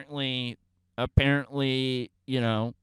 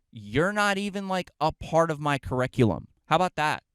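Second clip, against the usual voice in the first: losing it. Retold or imitated. Kid losing it at a nagging adult, heated retort. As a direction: snap back in a raised voice. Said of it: "I lost it".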